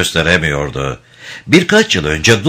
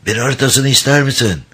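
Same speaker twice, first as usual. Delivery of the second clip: rasping voice; 5 semitones higher than usual. Acted. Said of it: "kulak tırmalayan hırıltılı bir sesle".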